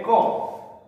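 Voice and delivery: Co isolated as the strong syllable; CO, the stressed beat on its own; stressed syllable alone. Shown as a demonstration. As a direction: give Co by itself with full weight. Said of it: "la mayor fuerza de voz en co".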